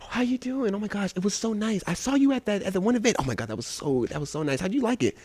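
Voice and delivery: soft gushing mock-sweet voice; breathy mock gush; fake-friendly greeting. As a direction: imitate fake niceness before a debate. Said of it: "they'd be like".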